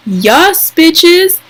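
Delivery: a fan cheering her ship; excited squeal. Real, not acted. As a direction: squeal it with glee. Cheering the kiss.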